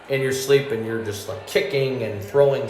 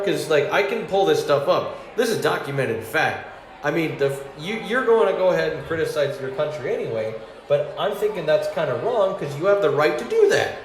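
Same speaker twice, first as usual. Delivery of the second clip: worked-up rant; 6 semitones higher than usual. Retold or imitated. Heated patriotic argument retold.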